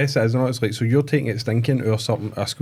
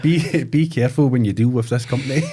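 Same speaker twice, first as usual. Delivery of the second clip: laughing. Real, not acted. Reading bad review aloud, amused.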